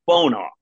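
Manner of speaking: "Fonar" said slowly and distinctly after spelling it out; clear pronunciation. Shown as a demonstration. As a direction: say "Fonar" as a clear name, stress on the first syllable. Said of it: "F O N A R".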